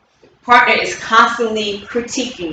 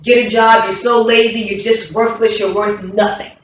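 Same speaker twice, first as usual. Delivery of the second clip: nagging critic; 3 semitones higher than usual. Shown as a demonstration. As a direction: rattle off the complaints at your partner. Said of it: "I'll give you an example".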